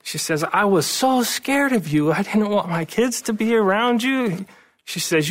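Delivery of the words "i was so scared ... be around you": crying wife. Retold or imitated. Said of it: "she just started to cry".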